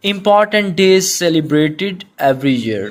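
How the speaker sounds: slow, deliberate dictation pace; slow classroom read-aloud. Shown as a demonstration. Teacher reads meaning slowly.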